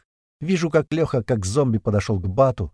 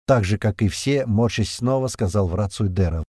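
ordinary delivery

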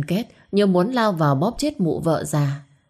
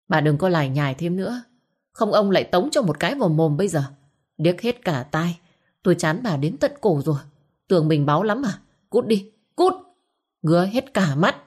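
fast, scolding husband's tirade; angry husband. Acted. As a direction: cut her off, fed up. Husband threatens wife to leave. (người chồng quát mắng, nói nhanh)

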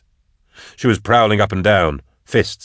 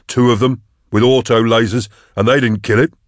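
raised, incredulous hunter's voice; incredulous protest; 4 semitones higher, 4 dB louder than usual. A narrator's reading. Hunter refusing to chase on, incredulous protest. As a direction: protest that it is hopeless, pitch up.

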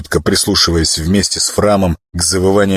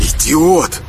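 annoyed; 8 semitones higher than usual. A narrator's reading. Squad member scolds the caller.

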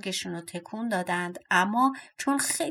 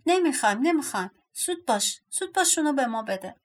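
higher-pitched, insistent refusal; impatient demand; 4 semitones higher, faster than usual. Acted. Dwarfs refusing to let Berta wrap it, impatient. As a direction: rush them along in a high voice.

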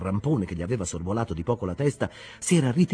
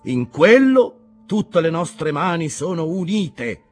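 higher, louder impassioned preaching; fervent sermon; 8 semitones higher, 5 dB louder than usual. Acted. Ishmael preaching to the captains, fervent. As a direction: preach it with conviction.

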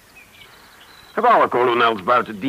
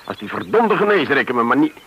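losing his temper; 3 semitones higher, 4 dB louder, faster than usual. Acted. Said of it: "niet mijn gewoonte me zo te laten gaan".

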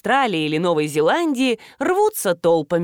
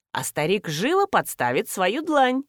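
ordinary delivery

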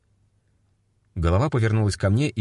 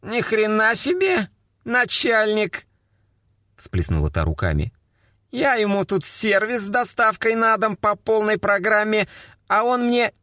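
much higher, brash indignant woman's voice; indignant vulgar girl. A narrator's reading. Girl protests to the captain, brassy and indignant. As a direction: play a brassy offended call girl.

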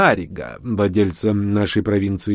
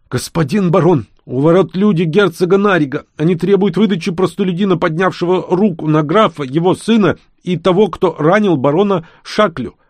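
higher, urgent servant's report; alarmed servant; 9 semitones higher, 4 dB louder than usual. A narrator's reading. Servant Gran bursts in to warn the baron, alarmed. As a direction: blurt out the bad news at the door.

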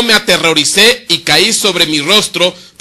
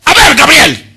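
loud, high call to Gabriel; mock-commanding shout; 8 semitones higher, 7 dB louder than usual. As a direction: bark the order like a commander. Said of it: "le gritaba a Gabriel".

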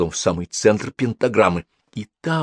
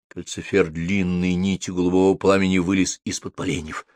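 usual speaking voice

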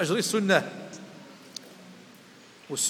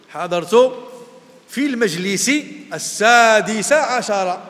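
loud, slow example phrase, السادس عشر drawn out; example said emphatically; 3 semitones higher, 7 dB louder, slower than usual. Shown as a demonstration. Teacher reads an example phrase aloud to the class, emphatic. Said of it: "أو حتى لو عرفناها".

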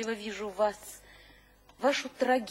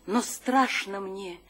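poem recital. Acted. An admirer recites the poet's own verse back to him in a recital voice. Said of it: "Мне бы так никогда не прочесть".

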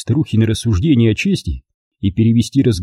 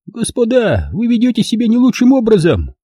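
put-on high, prim old lady with pursed lips; prim and offended; 12 semitones higher than usual. A narrator's reading. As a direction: scold them primly, lips pursed. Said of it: "поджала она губы".

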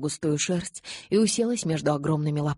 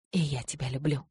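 hushed, tender murmur; tender reply; 3 dB quieter than usual. A narrator's reading. Mother answering her daughter's farewell, tender and hushed. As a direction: answer softly and lovingly.

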